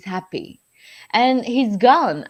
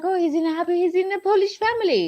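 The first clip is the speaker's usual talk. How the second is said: tearful joy; 9 semitones higher, 4 dB louder than usual. Retold or imitated. Retelling joyful thoughts, half crying.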